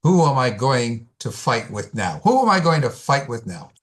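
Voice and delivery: lightly voiced mourner's plaint, building on the repeat; plaintive. Grieving uncle at his brother's graveside, plaintive. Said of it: "says in a plaintive voice".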